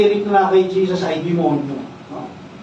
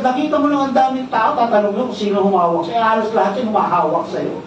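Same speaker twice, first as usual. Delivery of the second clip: mildly sarcastic; faster than usual. Retold or imitated. Disciples questioning Jesus in the crowd, mildly sarcastic. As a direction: imitate mild incredulity, easing toward usual pitch. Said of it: "Sarcastic yung sagot ng".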